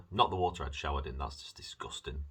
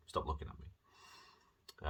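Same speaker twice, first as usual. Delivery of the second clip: slow whispered plea to the drinks; mock whisper; 7 dB quieter, much slower than usual. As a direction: whisper it slowly, pleading with them. Talking to the drinks.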